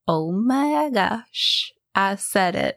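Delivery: drawn-out, slow "oh my gosh"; amazed realisation. Retold or imitated. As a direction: marvel at yourself, stretching the words. Retells delighted realisation at herself.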